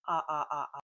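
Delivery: ah with no nasal air; plain open ah, nose plugged; non-nasal ah. Shown as a demonstration. Teacher shows a plain ah unchanged with nose plugged. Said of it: "If you plug your nose, you won't feel anything".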